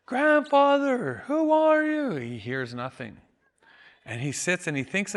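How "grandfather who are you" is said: high, loud call, slow on grandfather; yelling out. Retold or imitated. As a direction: shout across the field for the old man. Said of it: "he yells that out".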